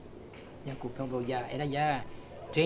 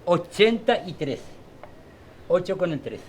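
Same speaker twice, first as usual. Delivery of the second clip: lottery caller; 4 dB louder than usual. Shown as a demonstration. Calling lottery numbers aloud.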